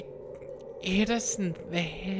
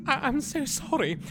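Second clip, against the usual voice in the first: blubbering apology; 7 semitones higher than usual. Acted. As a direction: sob out the apology, half comic. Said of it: "Now, now I'm crying".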